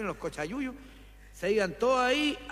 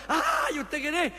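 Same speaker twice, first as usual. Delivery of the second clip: higher, slow startled cry, lightly nasal; a hint of a nasal voice, startled shout; nasal-voiced man startled; 6 semitones higher, slower than usual. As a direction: jump at the ghost with a mock nasal cry. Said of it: "que era gangoso".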